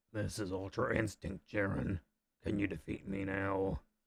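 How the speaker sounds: gruff, growling hero voice. Showing how to make the voice growly enough, the speaker demonstrates a growly voice. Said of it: "if you really want your voice to be growly enough".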